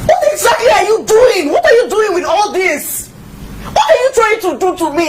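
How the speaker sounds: crying, shouting out in frustration; tearful shouting. Acted. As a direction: shout through tears at her. Wife confronts mother-in-law over tea.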